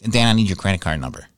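a hint of a little daughter asking; young daughter asking dad for his card; little girl voice. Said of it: "I hear a little voice that goes".

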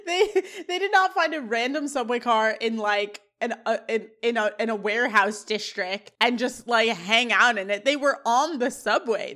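exasperated amused rant; incredulous. Real, not acted. Incredulous rant about subway plot.

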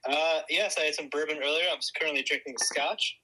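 speakerphone audio; thin voice through a phone line; over the phone. Real, not acted. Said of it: "you're on speakerphone".

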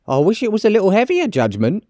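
high-pitched, indignant character voice; high, scolding woman; scornful charwoman. Acted. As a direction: condemn him in a high voice. Charwoman replies.

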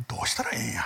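God's lament in hushed, whispered Osaka dialect. Pretend. Preacher voicing God at a loss, whispered Osaka dialect. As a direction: breathe it out in Osaka dialect like a sigh of despair. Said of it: "大阪弁で言うと".

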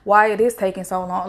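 low-pitched imitation of doubters; mocking. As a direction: mimic people mockingly questioning God. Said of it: "that's like mocking him".

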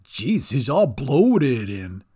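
slow, disgusted goblin groan; grossed-out goblin. A narrator's reading.

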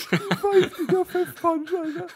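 high laughing voice, words through laughter. Real, not acted. Laughing at the band name slip.

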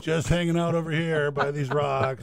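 lazy, innocent shark voice, lightly done. Pretend. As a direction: play a sly resting shark. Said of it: "That's your thresher shark imitation".

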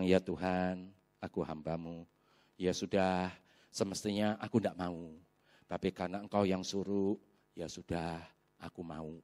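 low, soft retold prayer; resigned, hushed surrender; submissive prayer. Retelling his submissive prayer to God.

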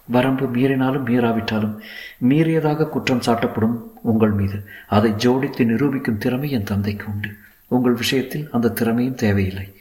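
lightly voiced heroine, explaining gravely; a hint of a sorrowful heroine; earnest story heroine.

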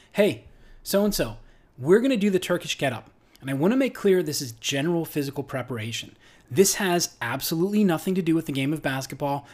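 lightly put-on coach's script delivery; scripted coaching voice. Shown as a demonstration. Coach briefing an athlete on the Turkish get-up, scripted coaching voice. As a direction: recite well-rehearsed cues to an athlete. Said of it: "hear the difference in my voice when I coach like that".

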